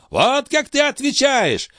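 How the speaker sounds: put-on very high, strained old man's rant; old master ranting. A narrator's reading. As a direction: rail against him with contempt. Althotas rages.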